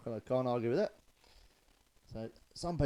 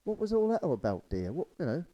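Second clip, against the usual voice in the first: puzzled husband; 4 semitones higher, 4 dB louder than usual. Acted. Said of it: "And he said".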